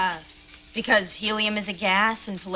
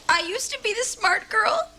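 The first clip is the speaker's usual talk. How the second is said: tearful lament; 12 semitones higher than usual. Acted. Daughter laments to mother.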